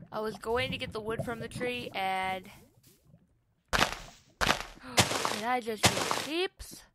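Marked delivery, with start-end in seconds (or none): 3.7-6.8 gasping surprise. Real, not acted. Gasp at a sudden sound.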